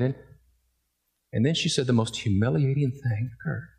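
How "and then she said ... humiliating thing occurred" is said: usual speaking voice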